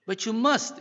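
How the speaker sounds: high, loud urgent plea; pleading, pitched right up; imploring. A narrator's reading. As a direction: implore a companion desperately. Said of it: "implored his companion".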